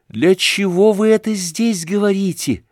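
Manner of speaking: резкий, высокий выкрик; бросить вопрос с вызовом; вскричала. A narrator's reading. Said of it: "вдруг вскричала Аглая". (вскрик Аглаи)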